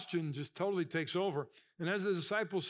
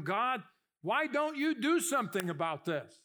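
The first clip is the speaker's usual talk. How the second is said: louder, higher plea to God; desperate cry; 5 semitones higher, 4 dB louder than usual. Retold or imitated. Preacher voicing the worried believer's cry, louder and higher. Your cries become.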